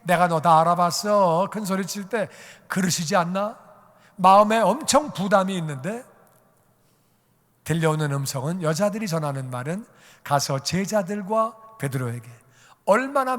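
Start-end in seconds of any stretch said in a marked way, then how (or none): 0.0-1.5 acted-out jeering telling-off; a touch of scornful ridicule; mocking scolding. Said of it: "나를 좀 비웃을지도 몰라". 10.2-12.3 slow, tender delivery of the message; unhurried and consoling; gentle message. Acted. Message retold as comfort to Peter.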